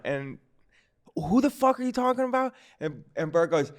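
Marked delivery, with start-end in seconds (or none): 1.2-2.5 high-pitched mock bafflement; confused. Bartender questions Bert about the caller, confused. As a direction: retell a bewildered bartender, pitched well up. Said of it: "like, all confused".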